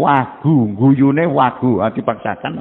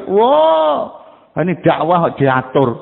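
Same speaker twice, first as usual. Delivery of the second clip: scoffing; slower than usual. Acted. Mocking a proud preacher's complaint.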